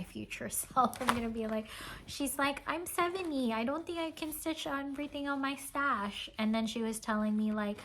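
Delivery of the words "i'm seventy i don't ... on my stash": lightly voiced, higher-pitched quote; imitated seller. Seller admitting her stash is too big, lightly imitated. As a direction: mimic her with pitch lifted.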